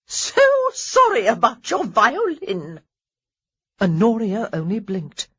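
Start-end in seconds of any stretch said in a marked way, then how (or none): 0.1-2.8 put-on loud, slow grand old lady voice; mock-sorry dowager. A narrator's reading. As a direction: overplay the regret. Lady Danbury's feigned apology.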